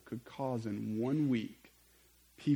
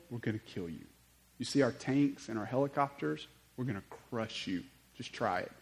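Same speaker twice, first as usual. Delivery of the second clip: menacing threat. Acted. Acted Roman soldiers threatening the crowds.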